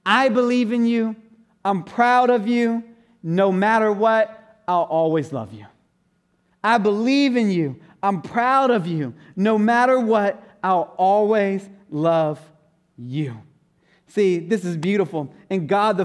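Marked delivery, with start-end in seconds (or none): 0.0-5.6 fatherly affirmation. Shown as a demonstration. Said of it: "every warrior needs to hear is this". 6.6-13.4 fatherly affirmation, again slowly. Shown as a demonstration. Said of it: "every warrior needs to hear is this".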